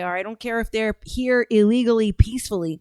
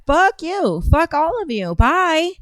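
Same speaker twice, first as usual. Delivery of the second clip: high, loud furious shout; angry outburst; 6 semitones higher, 4 dB louder, slower than usual. Real, not acted. Ranting on stream about immigrants, angry shout. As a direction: spit it out at them, real anger.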